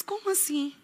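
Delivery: very soft, whispered question; hushed puzzled question. Retold or imitated. Woman replying to the person she went to see, hushed puzzlement. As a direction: whisper it as if taken aback.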